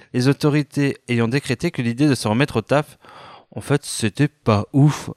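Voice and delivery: light news-anchor delivery; playful fake newscaster announcing the nation's news; mock news read. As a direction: read it like a spoof evening bulletin.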